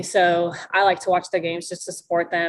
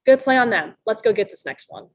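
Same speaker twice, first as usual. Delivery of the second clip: bright call to teammates, higher and louder at the start; upbeat encouragement; 3 semitones higher, 4 dB louder than usual. Retold or imitated. Player rallying teammates after opponent scores, upbeat higher call. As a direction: pump up the team after their good play.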